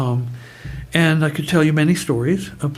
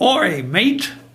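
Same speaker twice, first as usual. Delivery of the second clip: put-on higher Australian accent; 6 semitones higher than usual. Quoting a man's answer to his standard question; Australian accent. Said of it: "with his Aussie accent".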